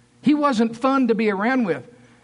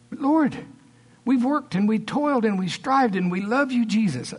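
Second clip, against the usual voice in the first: pleading protest; 2 semitones higher than usual. Acted. Weary disciples answering Jesus, pleading protest. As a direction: protest your devotion, pitch lifted.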